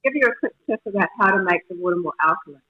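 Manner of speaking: muffled, like underwater; garbled call audio; underwater sound. Real, not acted. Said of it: "It's coming across so like you're underwater".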